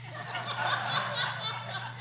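high burst of laughter; a high, bubbling laugh. Real, not acted. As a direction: laugh at your own bragging. Laughs at his own boast.

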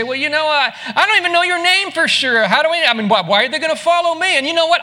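flustered Moses excuses. Acted. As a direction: pile on the excuses, rattled.

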